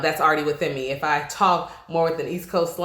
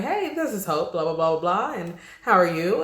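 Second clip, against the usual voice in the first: professional phone voice. Shown as a demonstration. Host demonstrates answering the phone at work, light professional phone voice. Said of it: "it's a more professional environment".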